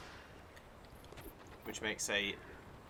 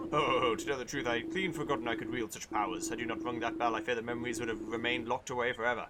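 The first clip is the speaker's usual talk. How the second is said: jolly king voice; 2 semitones higher, 3 dB louder than usual. Acted. Reads king's dialogue aloud.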